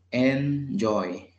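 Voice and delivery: Enjoy drawn out as en, joy; two slow separate beats, en and joy; split into syllables. Shown as a demonstration. Teacher counting two syllables for learners, syllable by syllable. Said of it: "Tiene dos sílabas".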